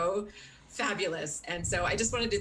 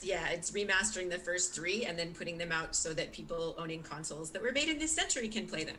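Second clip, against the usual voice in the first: sarcastic; 3 dB quieter than usual. Real, not acted. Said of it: "So I say sarcastically".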